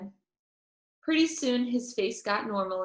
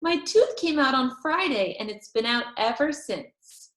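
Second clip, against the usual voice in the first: put-on a little girl's voice, a touch higher; Junie B proud; 5 semitones higher, 3 dB louder than usual. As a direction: tell it proudly like a kid. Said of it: "I said".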